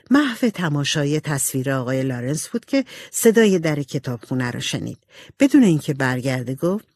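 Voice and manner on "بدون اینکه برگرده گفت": plain reading voice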